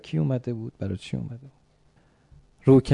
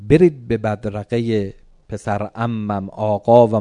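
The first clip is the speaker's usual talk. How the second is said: slow, deliberate fatherly order; measured command; 5 dB louder, slower than usual. Acted. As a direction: give the order firmly, word by word. پدرم رو کردن به ما. (دستور شمرده و محکم)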